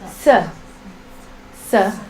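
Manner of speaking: "S" as a simple hiss plus short vowel, "suh"; unmodified s. Shown as a demonstration. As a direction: say "S" as "suh", tongue doing nothing special. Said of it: "so you do nothing".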